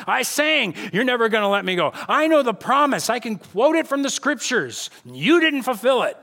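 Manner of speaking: frustrated complaint. Acted. Believer complaining to God, acted.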